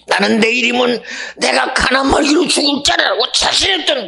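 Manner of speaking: high-pitched, rising preacher's cry; impassioned preaching. Acted. Preacher telling congregation of a throat opened to live, impassioned. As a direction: drive the point home to the congregation.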